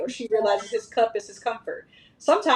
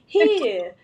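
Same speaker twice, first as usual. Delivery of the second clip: put-on higher, falling "here" with East Coast accent; toddler's East Coast accent; 4 semitones higher, 4 dB louder than usual. Daughter handing her brother his cup, mimicked East Coast accent. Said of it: "sounds like she's from the East Coast".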